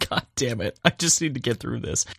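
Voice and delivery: pained, burnt mouth; pushing through a scalding mouthful; mouth full of hot food. Real, not acted. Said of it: "my mouth is on fire".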